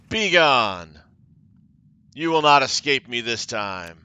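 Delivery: loud furious villain boast; hissing fury. Acted. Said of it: "Xandria hisses in a fury".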